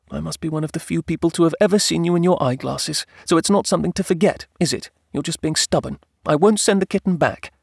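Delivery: high-voiced wife arguing back; stubborn wife. Wife refuses to send kitten back, stubborn. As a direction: argue high and firm, refusing to yield.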